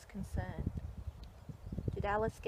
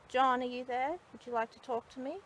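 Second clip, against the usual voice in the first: louder call, pitched up to reach him; 5 semitones higher, 7 dB louder than usual. Real, not acted. Medium calling out to the spirit of John. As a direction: call his name out into the graveyard.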